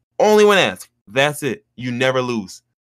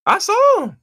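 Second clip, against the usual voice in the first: much higher, hammed-up gushing over her lips; mock gushing; 4 dB louder, slower than usual. To his friend about the coworker, a high mock gush. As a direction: squeal it like a giddy fan.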